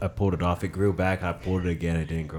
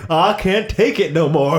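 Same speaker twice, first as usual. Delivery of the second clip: whiny body voice; 10 semitones higher, 4 dB louder than usual. Retold or imitated. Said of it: "your body was like".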